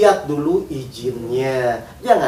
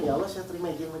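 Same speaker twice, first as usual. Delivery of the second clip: quiet surrender; 9 dB quieter, faster than usual. Acted. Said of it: "paling tuh langsung".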